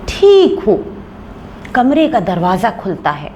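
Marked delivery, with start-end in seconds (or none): none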